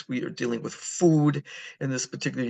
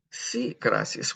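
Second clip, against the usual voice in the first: slow model phrase; 2 semitones higher, slower than usual. Shown as a demonstration. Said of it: "teacher models phrase slowly".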